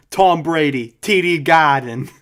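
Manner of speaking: loud, hammed-up Boston accent. Friend mocking a mirror routine, loud Boston accent. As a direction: belt out each name in broad mock Boston. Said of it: "really developed that Boston accent".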